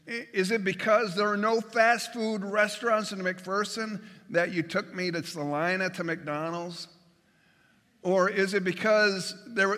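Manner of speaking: mildly mocking rhetorical question; sarcastic. Complaining to whoever planned the trip, mild sarcasm. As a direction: needle the driver with lightly voiced sarcasm. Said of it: "Sarcasm. It'd be like us saying".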